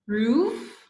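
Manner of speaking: roof said with a long oo; wrong vowel. Shown as a demonstration. Teacher to class, contrasting wrong vowel. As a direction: stretch roof into a long oo sound. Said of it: "No, it's making rough".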